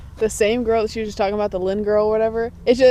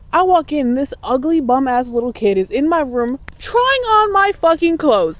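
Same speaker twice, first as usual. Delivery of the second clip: higher, emphatic build of indignation; outraged retelling; 4 semitones higher, 3 dB louder than usual. Retold or imitated. Teller describing an intruder in their bedroom, outraged. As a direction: tell it appalled, hitting each word.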